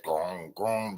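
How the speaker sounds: low, drawn-out "gong" of the beat; imitated bass sound. Shown as a demonstration. Host mimicking the dirty beat for Duchess, imitated bass sound. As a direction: voice the beat's dirty low drone.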